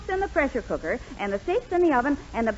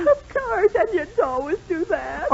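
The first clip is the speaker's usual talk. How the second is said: teary; 4 semitones higher, slower than usual. Acted. Crying over onions.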